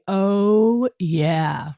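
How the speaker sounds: drawn-out. Shown as a demonstration. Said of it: "can you say".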